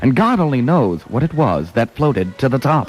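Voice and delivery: poem recitation. Acted.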